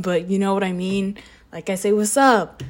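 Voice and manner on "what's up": casual greeting. Shown as a demonstration. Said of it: "Like that".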